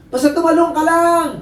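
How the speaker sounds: high insistent shout; acted command to leap; urging father. Father urging child off the roof, urgent shouting.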